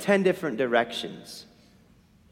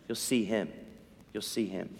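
fading echo; 9 semitones lower, 11 dB quieter than usual. Shown as a demonstration.

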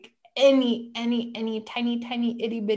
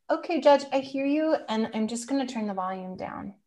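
calm self-talk; 2 semitones higher than usual. Retold or imitated. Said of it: "and just, like".

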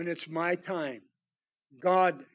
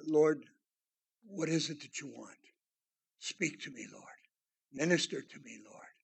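humble prayer; 4 semitones lower, 7 dB quieter than usual. Retold or imitated. Quiet humble prayer voiced.

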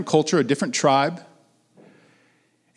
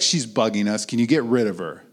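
mildly irritated, dropping lower; dismissive complaint; 4 semitones lower than usual. Acted. Disciples complaining to Jesus about the woman, mildly dismissive. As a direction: brush her off as a nuisance.

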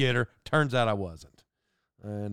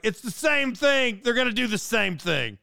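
worked up; 6 semitones higher than usual. Retold or imitated. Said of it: "I'm getting worked up here".

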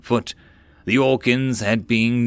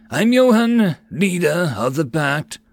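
loud introduction; 6 semitones higher, 3 dB louder, slower than usual. Acted. Johan introduces himself.

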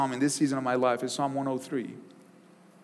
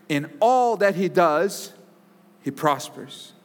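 scripture reading; 3 semitones higher than usual. Acted. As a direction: read the psalm with reverence. Reads Psalm one aloud.

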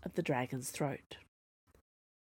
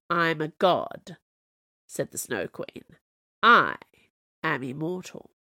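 imperious. Acted. Snow Queen declaring her godhood, imperious. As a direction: proclaim it grandly.

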